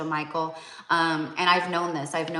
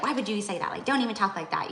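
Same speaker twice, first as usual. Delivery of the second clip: higher-pitched upset protest; 4 semitones higher, faster than usual. Retold or imitated. Mother reproaching her child for the grim prediction, mildly upset. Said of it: "she got kind of, like, upset".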